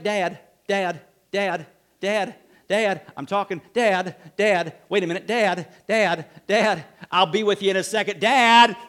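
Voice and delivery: repeating Dad, Dad insistently; mock child tugging at dad; pestering kid. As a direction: nag like a kid who wants attention now.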